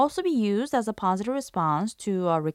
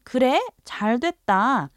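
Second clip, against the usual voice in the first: louder, higher 그래 then a quick 잘 됐다; pleased reaction; 5 semitones higher, 3 dB louder, much faster than usual. Shown as a demonstration. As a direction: react happily to the good news. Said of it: "you may respond by saying".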